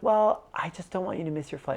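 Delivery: a hint of a mother explaining herself; imitated mother. Mom explaining herself to her son, lightly imitated. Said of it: "And she'd be like".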